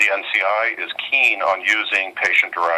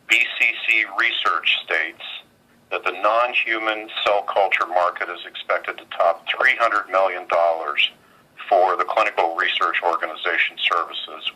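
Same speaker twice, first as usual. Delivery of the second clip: on speakerphone. Real, not acted. Earnings conference call over phone.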